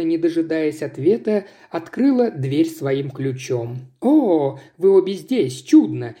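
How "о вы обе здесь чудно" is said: chirpy. Acted. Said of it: "прощебетала она".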